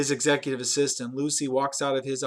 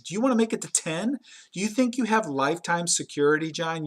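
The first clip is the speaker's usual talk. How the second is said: threatening boss; 3 semitones higher than usual. Retold or imitated.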